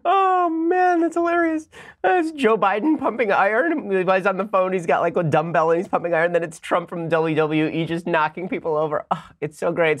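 high, laughing through the words; delighted, can barely talk for laughing; gleeful laughter. Real, not acted. Host watching the fight training clip, laughing high.

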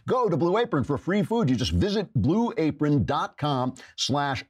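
excited ad plug. Acted. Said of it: "ad read pitched up".

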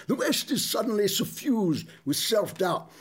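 slow, lofty mock-pompous broadsheet tone; New York Times voice. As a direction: read it like a self-important newspaper columnist. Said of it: "I'll have to do this in a New York Times voice".

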